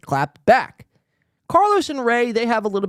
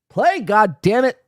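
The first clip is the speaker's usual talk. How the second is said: frustrated; 5 semitones higher, 4 dB louder than usual. Real, not acted. Video keeps freezing.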